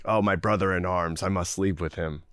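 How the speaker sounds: hammed-up gallant knight voice; mock noble, low. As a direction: intone it like a noble warrior. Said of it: "It's like".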